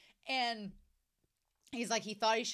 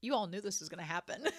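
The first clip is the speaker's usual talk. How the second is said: laughing admission; 3 semitones lower, faster than usual. Real, not acted. Admitting to viewers, laughing.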